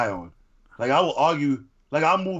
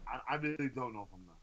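very soft, distant voice; voice from elsewhere; 20 dB quieter, much faster than usual. Real, not acted. Co-host asked if he is done, faint and far away. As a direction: talk faintly, as if from another dimension. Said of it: "Leo talking from a different dimension".

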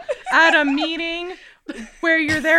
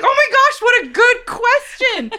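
sarcastic; 6 semitones higher than usual. Retold or imitated. Sarcastic reply to mom.

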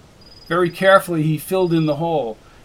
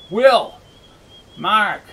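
calling out; 5 semitones higher, 4 dB louder than usual. Acted. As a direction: shout the names out. Calling out for missing men.

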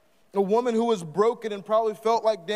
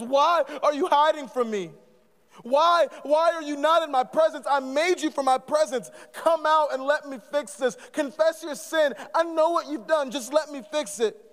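a hint of God pleading, raised and urgent; 5 semitones higher than usual. Preacher as God pleading with hiding Adam, earnest. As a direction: plead with the one hiding from you.

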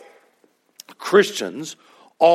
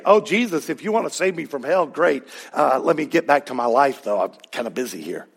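mock casual brush-off. Mocking halfhearted believer.

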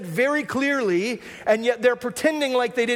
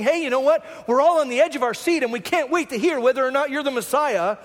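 mock eager curiosity; 2 semitones higher than usual. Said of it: "that isn't them being inquisitive".

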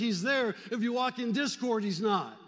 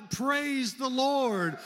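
drawn-out shout; 3 semitones higher, much slower than usual. Shown as a demonstration. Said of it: "Can you just shout".

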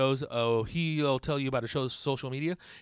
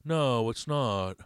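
slow, stretched-out actor impression, lightly done; Nick Cage; slower than usual. Comic playing the actor discussing his movie, loose halting impression. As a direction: draw the words out like a halting movie star. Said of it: "trying to work on that Nick Cage voice".

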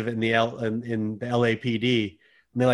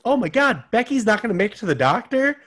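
high, exaggerated sitcom panic; mock over-the-top dismay; dramatic sitcom voice; 10 semitones higher than usual. Sitcom character voiced in mockery.

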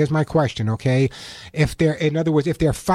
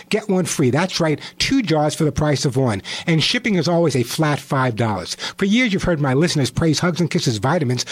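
hard sell ad. Acted. Host reads vitamin sale ad.

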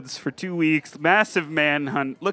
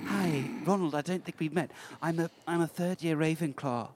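lightly British student introduction; put-on British accent; 5 dB quieter than usual. Ravenclaw student meeting Ron, put-on British accent. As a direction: introduce yourself in mild mock British. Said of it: "And we'll be British".

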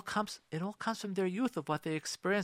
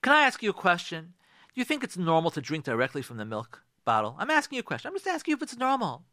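question criticism. Shown as a demonstration. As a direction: ask as if innocently, but press the blame. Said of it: "question criticism".

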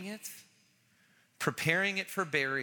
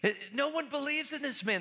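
exasperated Pharisees; 9 semitones higher than usual. Retold or imitated. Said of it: "They're like".

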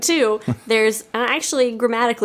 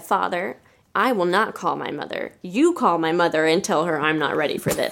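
calm reply; 4 semitones lower than usual. Retold or imitated. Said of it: "I calmly said".

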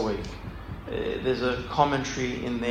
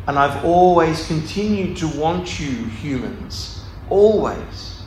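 God pleading. Acted. God telling humans he always wanted them, slow and longing.

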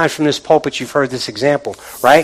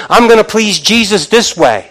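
Martha's busy resolve; 6 semitones higher, 5 dB louder than usual. Retold or imitated. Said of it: "working these works according to what she knows".

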